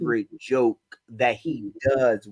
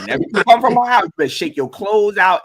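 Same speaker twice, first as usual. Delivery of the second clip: imitated mother; 6 semitones higher, 4 dB louder, faster than usual. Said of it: "my mother was like".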